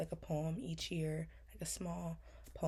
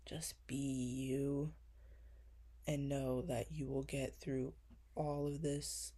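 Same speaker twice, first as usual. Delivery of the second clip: slow tender comfort; slower than usual. Real, not acted. Comforting her younger self.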